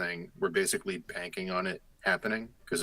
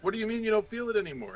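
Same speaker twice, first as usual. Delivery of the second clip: much higher, fast, incredulous; indignant disbelief; 14 semitones higher, faster than usual. Retold or imitated. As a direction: chase after them, baffled. Rejected, demanding an answer.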